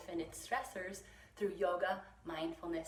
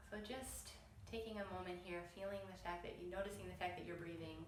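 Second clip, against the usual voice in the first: softer, hushed meditation guidance; soft voice leading a breathing exercise; guided meditation; 8 dB quieter, faster than usual. Real, not acted. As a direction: gently guide them to notice the breath, softly.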